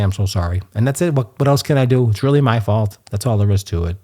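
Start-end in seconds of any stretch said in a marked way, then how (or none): 0.0-0.6 apologetic. Retold or imitated. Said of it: "just say".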